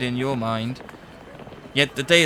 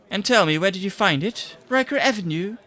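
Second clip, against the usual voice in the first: surprised question; 8 semitones higher, 4 dB louder than usual. Acted. Secretary reacts sharply.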